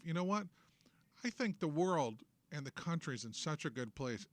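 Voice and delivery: dry mock praise; sarcastic. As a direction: drip with sarcasm. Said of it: "Obviously, I'm being sarcastic".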